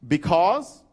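"Because" in his own Southern accent; Southern pronunciation. Shown as a demonstration. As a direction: show off how you say "Because". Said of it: "I catch myself saying".

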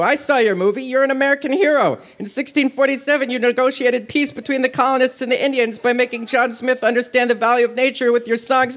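high fast eager praise; gushing. Acted. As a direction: gush like a fanboy. Pinocchio gushing.

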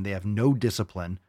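normal talking voice

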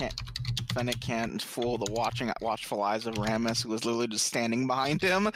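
low, monotone mock-narrator voice; mock narration. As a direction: intone it low and level. Mock-narrates the watchful guard scene.

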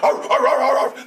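quick startled yelps; chased dog yelps; dog yelping. Acted. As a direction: yelp as you run away.

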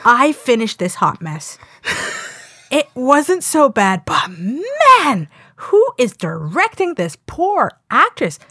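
slow, drawn-out reading that jumps high at the end; dramatic comment reading. Acted. Co-host reading a snarky viewer review, slow and mocking. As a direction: read the viewer's snark slowly, then squeak the last question. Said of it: "Then it was just like".

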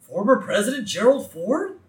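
amazed cartoon dad, high and loud; Homer. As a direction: gasp in awe, then boom a greeting. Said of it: "And Homer gasps".

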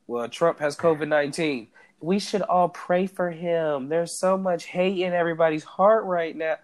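lightly voiced pious Trump supporter, slowing down; mock a Trump supporter's plea for prayers; a hint of sanctimonious Trump supporter. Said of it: "That was my Trump supporter voice".

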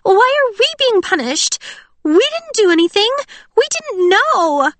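high, loud, near-crying plea, slowing at the end; tearful pleading. A narrator's reading. Pearl pleading tearfully with Cinder, high and loud. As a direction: beg through rising tears. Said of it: "Tears began to pool in Pearl's eyes".

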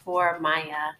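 slightly raspy voice from a cold. Real, not acted. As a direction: speak through a lingering cold, a bit raspy. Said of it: "semi-raspy voice".

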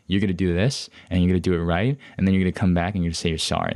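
imitating someone laying down orders; bossy. Counselor dictating consequences to a student, bossy. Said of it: "being bossed around".

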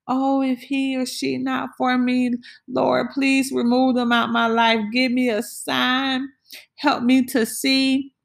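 high pleading voice to the Lord; pleading prayer. Retold or imitated.

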